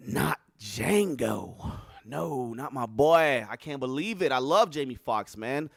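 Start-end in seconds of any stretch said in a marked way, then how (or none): 0.1-3.5 mock grief. Mock grief over Jamie Foxx.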